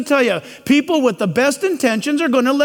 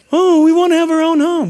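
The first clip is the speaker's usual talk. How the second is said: louder mock whining grown kids; 4 semitones higher, 4 dB louder than usual. Preacher mocks adult kids wanting a home, louder whine. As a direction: whine like entitled grown children.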